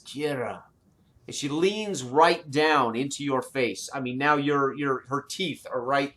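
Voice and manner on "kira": dragon whisper. Acted. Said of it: "she whispers".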